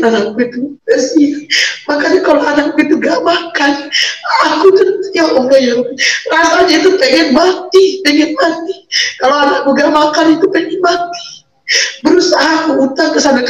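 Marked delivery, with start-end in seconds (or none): 4.5-8.8 choked sobbing words; real tearful despair; crying. Real, not acted. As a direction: let the tears break through. Breaks down recalling hungry child.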